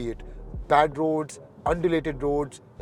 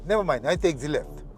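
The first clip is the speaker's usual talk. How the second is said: bad French accent. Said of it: "Sorry for the bad French accent".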